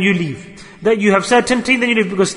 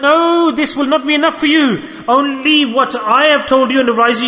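raised, forceful divine command; commanding voice of God; 5 semitones higher, 3 dB louder than usual. Acted. Preacher voicing Allah's command, loud and forceful. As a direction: boom it out as a stern order.

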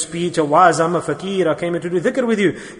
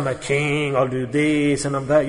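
madman's boast; 5 semitones lower, 5 dB quieter than usual. Retold or imitated. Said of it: "He said".

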